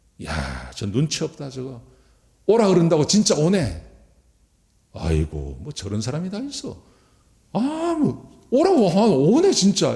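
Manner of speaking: rude, high, mocking sneer.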